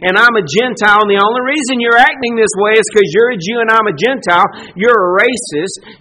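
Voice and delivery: loud, heated accusation; mock accusation. What she doesn't cry to Jesus, loud and aggrieved. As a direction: rail at him, aggrieved. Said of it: "She doesn't cry".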